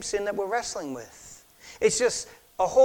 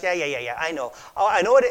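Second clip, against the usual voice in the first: dismissive know-it-all; 4 dB louder, faster than usual. Retold or imitated. Brushing off a concerned brother.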